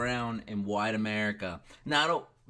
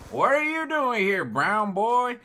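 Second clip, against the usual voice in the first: much higher, louder mock redneck challenge; hostile stranger; 8 semitones higher, 6 dB louder, slower than usual. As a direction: sneer it at the intruder. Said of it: "he said".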